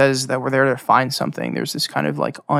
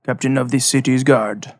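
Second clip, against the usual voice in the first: proud guard captain. Acted. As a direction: announce your rank with weight. GM voices guard captain introduction.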